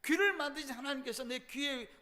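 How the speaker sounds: a hint of wailing; anguished cry. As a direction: cry out to God in grief. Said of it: "통곡하고".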